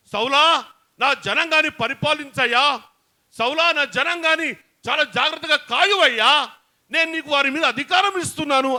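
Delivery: a hint of a fond, trusting God; God charging Saul. God handing Saul the rule over his people, lightly voiced and trusting. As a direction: call Saul and entrust him kindly. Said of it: "అని దేవుడు".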